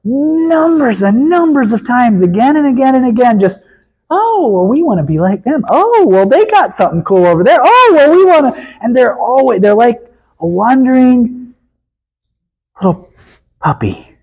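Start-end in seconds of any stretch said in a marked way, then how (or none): 4.1-8.6 high mocking whine on each oh well; lightly mock the people chasing something cool; whiny fickle Israelites. Preacher mocking Israelites who want idols, high whiny mock voice.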